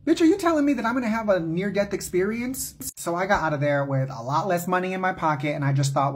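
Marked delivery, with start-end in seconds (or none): 0.1-2.8 high, incredulous outburst at the psychic; shocked disbelief. Retold or imitated. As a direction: pitch jumps up in alarmed disbelief. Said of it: "I said".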